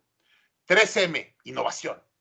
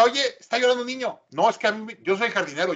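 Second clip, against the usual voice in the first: higher-pitched mock protest; acted excuse; 6 semitones higher than usual. Imagined Disney gardener dodging a crying child, mock protest. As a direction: imitate someone shrugging off responsibility.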